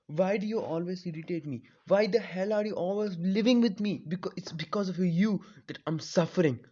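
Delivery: anguished shout fading to a hiss; strained raging cry. Acted. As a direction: scream it out until the voice cracks to a hiss. Naruto's rage turns strained.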